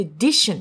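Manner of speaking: dition said with firm stress; stressed syllable. Shown as a demonstration. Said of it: "ちょっと強く読む".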